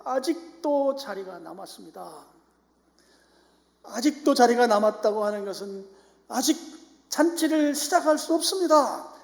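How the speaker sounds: loud, high, insistent pulpit proclamation; full-force preaching. Acted. Preacher retelling the servants' report of empty seats, full-force preaching. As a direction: drive each phrase out high and loud.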